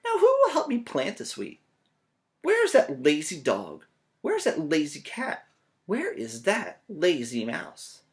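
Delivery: a hen hunting for helpers; lightly voiced hen. Hen character voice.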